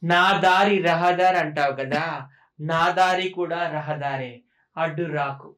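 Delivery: very slow, amateurish movie-line delivery; Ramyakrishna film dialogue. Acted. Asked for a forceful dialogue, slow mock-dramatic film recital. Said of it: "Ramyakrishna dialogue చెప్తా".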